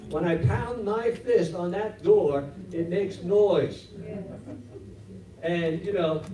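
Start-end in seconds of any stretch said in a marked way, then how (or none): 0.1-3.9 slowed words with laughter; laughing slow boast. Retold or imitated. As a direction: chuckle while slowly driving it home.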